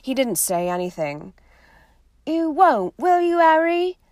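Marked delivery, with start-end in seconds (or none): 2.2-4.0 put-on higher, worried pleading girl's voice; anxious Hermione. Hermione begging Harry not to go after Black.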